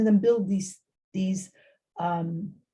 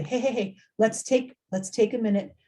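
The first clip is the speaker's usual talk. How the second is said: gentle calming; 2 semitones higher than usual. Shown as a demonstration. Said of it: "Not in a dismissive way".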